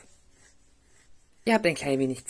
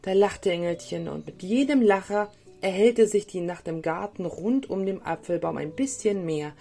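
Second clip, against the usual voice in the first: put-on lively storytelling for small children; story narration; 3 semitones higher than usual. A narrator's reading. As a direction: read a gentle tale with playful lifts on key words. (Märchen für Kinder vorlesen)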